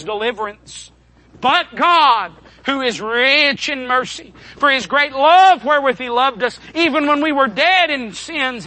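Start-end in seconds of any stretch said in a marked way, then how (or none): 1.4-8.6 lifted, ringing scripture reading; emphatic preaching. Real, not acted. Preacher reading God's mercy to the congregation, emphatic. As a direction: preach the verse with swelling emphasis.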